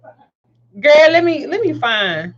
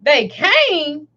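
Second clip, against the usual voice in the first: retold disbelief; 3 semitones higher than usual. Mother echoing her daughter's news, mildly incredulous. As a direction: echo it as a mother's question. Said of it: "And I was like".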